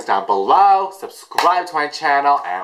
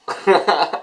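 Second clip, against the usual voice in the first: mock high giggle; short high put-on laugh; imitated high laugh; 6 semitones higher than usual. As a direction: imitate the singer's giddy laugh. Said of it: "she's like".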